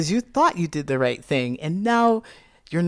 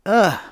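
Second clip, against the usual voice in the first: short, louder "ugh"; exasperated groan; 4 semitones higher, 6 dB louder than usual. Retold or imitated. Partner criticized my outfit, exasperated groan. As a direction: groan it out, annoyed.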